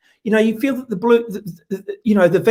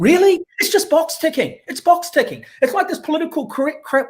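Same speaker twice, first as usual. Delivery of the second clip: scornful disbelief; 8 semitones higher than usual. Real, not acted. Scoffing at consultants.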